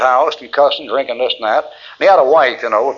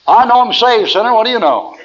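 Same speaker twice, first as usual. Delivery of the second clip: cheeky retort; 8 semitones higher, 3 dB louder than usual. Retold or imitated. Imitating cheeky reply to preacher.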